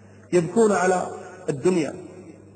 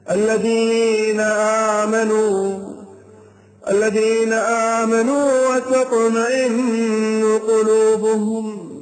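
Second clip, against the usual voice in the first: slow chanted Quran recitation, each word drawn out; slow melodic tajweed chant; much slower than usual. Acted. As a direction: chant the verse slowly like a reciter in prayer.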